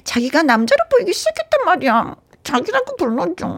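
high cutesy plea; cute lover voice. Pretend. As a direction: coax him sweetly like a girlfriend. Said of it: "귀엽게 얘기해야 되나?". (귀엽게 애교 부리며)

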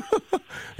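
short high burst of laughter; a quick delighted laugh. Real, not acted. Host laughs after caller's reply.

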